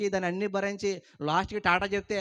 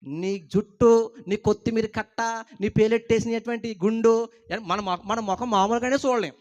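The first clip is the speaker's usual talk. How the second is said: mock scolding; 2 semitones higher, 6 dB louder than usual. Pastor mocking the man's shaved head: louder mock scolding. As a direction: scoff at him loudly.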